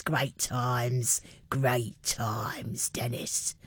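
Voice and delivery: low, slow whisper; hushed reminiscing. Acted. Host reminisces to Dennis about Cockney pub days, whispered. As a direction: drop to a whisper, savouring the memory.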